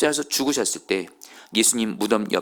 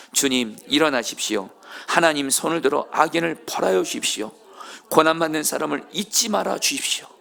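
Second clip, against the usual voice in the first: congregation reading aloud; 5 semitones higher than usual. Shown as a demonstration. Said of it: "시작".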